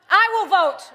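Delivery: carried away. Real, not acted. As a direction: burst out too loud, carried away. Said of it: "I got carried away".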